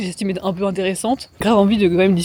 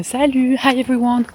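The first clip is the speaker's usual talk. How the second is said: a mock chirpy hello to everyone, higher; bubbly social greeting; 4 semitones higher than usual. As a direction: play the outgoing party guest, a touch hammed. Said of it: "Genre comme ça".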